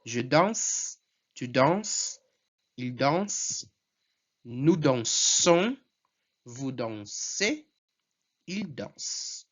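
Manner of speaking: slow nous dansons and vous dansez, the other forms ending on the S; French conjugation drill. Shown as a demonstration. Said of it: "muito fácil conjugar".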